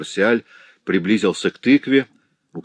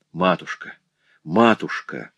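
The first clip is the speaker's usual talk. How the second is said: anguished cry. Acted. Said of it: "воскликнул Марсиаль".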